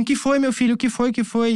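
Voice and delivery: high, insistent imitation of mom; worried mother. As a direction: press the question like an alarmed mother. Mother urgently asking her son.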